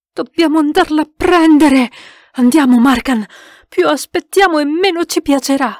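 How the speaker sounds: rally the others into action; pressing call to act; urgent rallying. A narrator's reading. Urging rescue of the medium.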